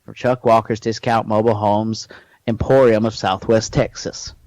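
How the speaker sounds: local discount-ad pitchman voice; Chuck Walker. Acted. Salesman pitching discount mobile homes, ad voice.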